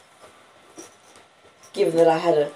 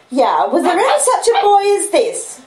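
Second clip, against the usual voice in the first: put-on higher exasperated sister exclaiming over the boy; sister's exclamation; 12 semitones higher, 7 dB louder than usual. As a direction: voice the scolding older sister, pitched up and louder. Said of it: "the restorative exclamation".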